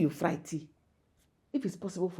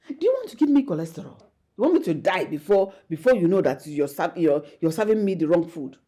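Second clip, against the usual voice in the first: scolding; 5 dB louder than usual. Acted. Mother scolding fried food.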